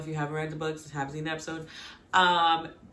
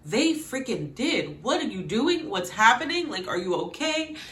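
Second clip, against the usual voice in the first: high, louder disbelief; exasperated; 5 semitones higher, 3 dB louder than usual. Real, not acted. Fan scolding the character, high. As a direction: demand what he's doing.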